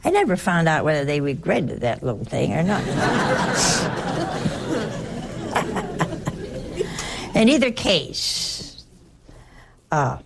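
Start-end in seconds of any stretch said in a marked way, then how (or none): 2.9-7.3 long high laugh; a warm real laugh at herself. Real, not acted. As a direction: chuckle at the irony. Laughs at her own joke.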